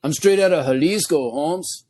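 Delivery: put-on comic Mexican homeboy accent; lightly hammed-up Mexican vato. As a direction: introduce yourself as a vato from Jalisco. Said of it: "do the rest of this episode just like this".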